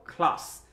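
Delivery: ক্লাস as one syllable with airy "khl"; aspirated C. Shown as a demonstration. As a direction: say "ক্লাস" with a puff after the K.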